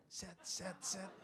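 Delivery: soft whispered scratching noise; scratching sound. Shown as a demonstration. Mimicking chicken scratching.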